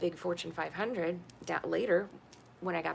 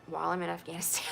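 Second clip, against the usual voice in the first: quicker, laughing through the words; laughing repeat; faster than usual. Shown as a demonstration. Repeating to the listener with a bitter laugh. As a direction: laugh in disbelief as you repeat it.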